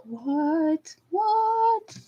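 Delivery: high, drawn-out falsetto disbelief; mock shock. Imagining the whole courtroom's reaction, mock stunned.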